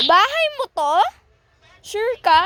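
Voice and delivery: high, loud disbelief; can't believe this is your house; shocked and loud; surprised. Acted.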